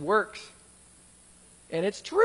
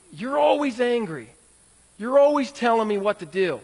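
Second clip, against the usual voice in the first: vague accusation; 3 dB louder than usual. Retold or imitated. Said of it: "Instead of things like".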